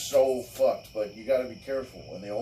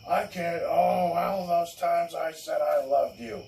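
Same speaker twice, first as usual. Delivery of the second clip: much higher, wounded and whiny; mock hurt girlfriend; 5 semitones higher than usual. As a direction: ham up her betrayed outburst. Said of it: "she was like".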